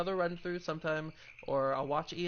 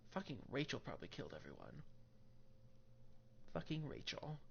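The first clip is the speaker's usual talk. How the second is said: muttered aside; 11 dB quieter than usual. Real, not acted. Joking accusation.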